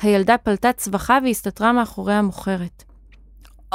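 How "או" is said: drawn-out exclaimed "oh"; acted wordless yell; old woman's shout. A narrator's reading. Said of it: "צעקה שוב הזקנה".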